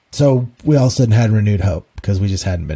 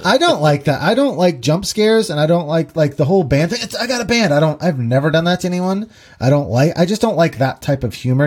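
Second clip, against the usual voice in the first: raised, exasperated complaining; annoyed; 5 semitones higher than usual. Real, not acted. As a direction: vent your irritation, pitched up. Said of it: "It just makes me feel annoyed".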